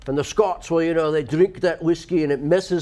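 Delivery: Scottish brogue with a messed-up tongue; Scottish accent. Shown as a demonstration. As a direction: talk like a whisky-drinking Scot. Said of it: "that's why they talk like this".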